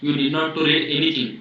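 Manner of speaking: each word spelled out very slowly; slow, emphatic advice. Shown as a demonstration. Teacher slowly stresses to students which handouts are enough. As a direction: lay it down slowly so students remember.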